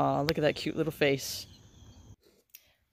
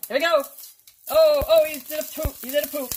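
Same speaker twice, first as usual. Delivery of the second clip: excited squeal; 12 semitones higher, 10 dB louder than usual. Real, not acted. Excited squeal while cooking.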